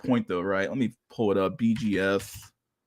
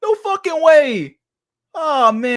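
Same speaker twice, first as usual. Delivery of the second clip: shrieking with laughter, much higher and louder; hysterical laughter; 9 dB louder, much slower than usual. Real, not acted. Streamer losing it with laughter at the clip, shrieking. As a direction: laugh till it hurts, crying out through it.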